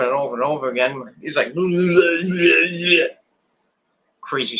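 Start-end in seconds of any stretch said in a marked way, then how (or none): 1.6-3.1 drawn-out mimicked wordless trill; imitated silly noise. Recapper mimicking the repeated finger brushing, silly drawn-out noise. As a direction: make a long, rolling babble noise.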